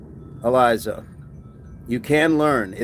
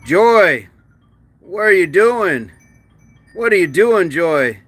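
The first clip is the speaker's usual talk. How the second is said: higher mock-stern call-out; mock scolding; 4 semitones higher, 4 dB louder than usual. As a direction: playfully tell her off.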